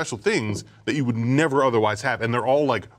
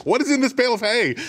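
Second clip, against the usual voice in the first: mock exasperated question; 11 semitones higher, 3 dB louder than usual. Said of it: "And I was like".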